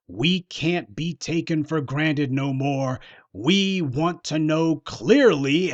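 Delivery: slow, drawn-out mocking quote with rising "clearly"; mock vague chatter. Commentator parodying a rapper's vague demand, slow and mocking. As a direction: drag it out like empty talk. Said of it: "vague chatter about".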